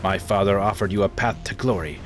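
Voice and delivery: lightly voiced cold traitor; a hint of a noble villain, measured; Victoria. Traitor explaining herself to her old friend, lightly cold. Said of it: "a different accent than I gave her".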